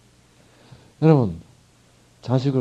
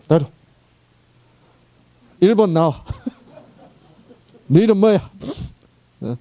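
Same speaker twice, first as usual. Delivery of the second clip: hammed-up stern judgement scene; a mocking caricature of a cruel judge; mock harsh judge; 5 semitones higher than usual. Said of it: "이런 게 심판이 절대로 아닙니다".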